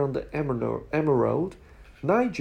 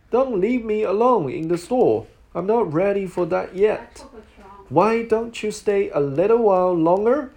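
pleading; 4 semitones higher, 4 dB louder than usual. Acted. Cassie begs guard to stay.

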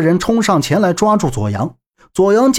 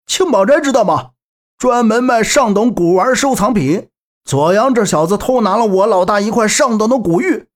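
fat thug; 5 semitones higher than usual. Acted. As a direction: brag and accuse like a small-time bully. Fat thug voiced in story. (胖混混略带变声的嚣张口气)

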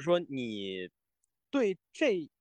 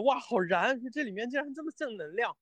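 put-on high, naive Taiwanese-accented gush; 8 semitones higher than usual. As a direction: mimic a naive fan in a light Taiwanese accent. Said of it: "他就会觉得".

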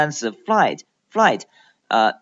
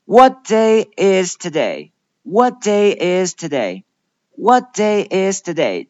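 slightly raised, careful teacher's model; deliberate pronunciation drill; deliberate model sentence; 3 semitones higher, 4 dB louder than usual. Shown as a demonstration. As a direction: model the question clearly for learners to repeat. Teacher models a contrasting question.

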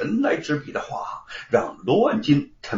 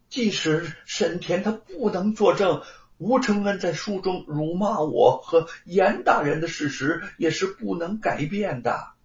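higher-pitched protest to the magistrate; lightly voiced plaintiff; 3 semitones higher than usual. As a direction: press the objection in a lightly acted character voice. (略带角色感地申辩)

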